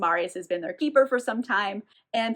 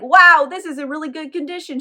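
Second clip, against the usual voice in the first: higher, louder wow; impressed; 5 semitones higher, 7 dB louder than usual. Retold or imitated. Shopkeeper handling her scroll, impressed. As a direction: marvel at the scroll.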